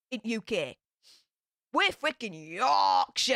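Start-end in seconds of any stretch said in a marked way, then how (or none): 1.7-3.3 drawn-out, emphatic Yorkshire pride; loud declaration of regional pride; proud shout. Real, not acted. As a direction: belt it out slowly and proudly. Proudly defending Yorkshire identity.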